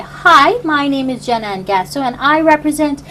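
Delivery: put-on English accent. Host introducing herself as a mock contestant, English accent. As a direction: slip into a presenter's English accent. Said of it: "why did I just have an English accent?".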